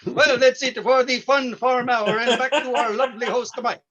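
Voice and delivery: cheerful mock farmer emcee; folksy farm-show host. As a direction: play a jolly hayseed comedian with corny chuckles. Fun Farm Hour host character.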